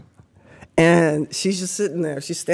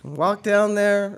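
mock walk of shame; 3 semitones higher, much slower than usual. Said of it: "this is the walk of shame".

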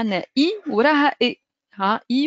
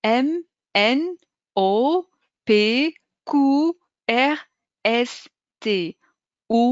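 reciting the alphabet; much slower than usual. Shown as a demonstration. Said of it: "نعاود لكم جوست الحروف كيفاش ينطقوا".

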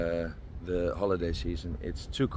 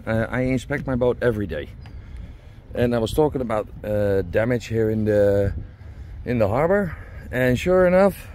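raised voice to carry over the wind on deck; loud over the wind; 4 semitones higher, 9 dB louder than usual. Real, not acted. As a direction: project firmly so the camera hears you outside. Outdoors on deck, talking over wind.

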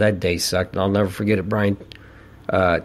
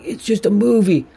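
higher, light motherly voice; playing Mom brushing it off, pitched up; mom's voice; 11 semitones higher than usual. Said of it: "I remember Mom's like".

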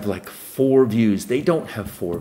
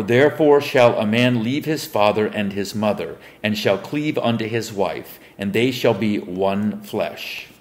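measured Bible reading voice; solemn King James recitation; scripture reading. Acted. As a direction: read the verse like a preacher at the lectern. Reads scripture aloud.

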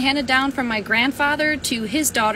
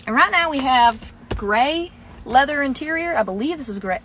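Southern accent. Real, not acted. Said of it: "talking in a southern accent".

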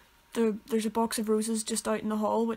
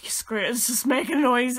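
whisper; 4 dB louder than usual. Retold or imitated. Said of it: "they were just like".

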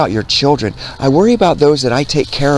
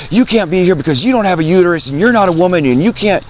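higher-pitched mock scolding; imitated indignant objection; 6 semitones higher, faster than usual. Woman confronting a man at the fair, imitated indignation. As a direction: mimic her telling you off.

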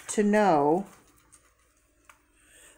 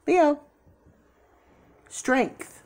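excited; 8 semitones higher than usual. Real, not acted. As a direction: call out the name in delight. Leo card shows up.

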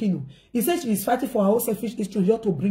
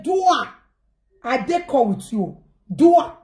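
urging. Retold or imitated. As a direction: urge her to go ahead. Mommy urging her on.

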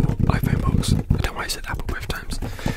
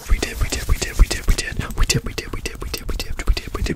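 fast aggressive asmr. Real, not acted. Rapid trigger word repetition.

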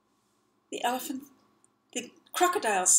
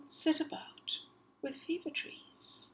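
hushed whisper; 6 semitones higher, 8 dB quieter than usual. A narrator's reading. Storyteller hushes for mystery.

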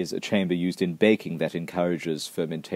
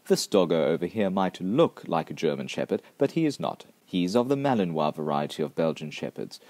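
ordinary talk

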